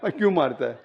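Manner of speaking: lightly acted, low-pitched questioning; brother confronting husband. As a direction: drop your pitch to take the husband to task. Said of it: "आप जाके उससे बात करेंगे". (भाई की धीमे सुर में हल्की पूछताछ)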